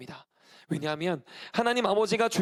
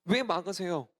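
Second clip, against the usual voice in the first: lightly acted plaintive plea, first words drawn out; mock tearful protest; 2 semitones higher than usual. Believer protesting to God over a blocked path, mildly plaintive. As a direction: plead as if starting to cry, lightly. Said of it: "우리는 울기 시작합니다".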